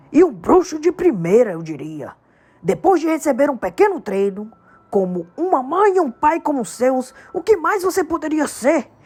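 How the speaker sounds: big, emphatic giant's voice, building; giant Hagrid. A narrator's reading. Hagrid telling Harry about his world, emphatic.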